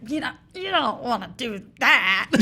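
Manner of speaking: lightly hammed-up imitation of an odd movie voice; Tom Hardy. Panelist asked for her impression, mock odd accent. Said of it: "like, with my own impression of it".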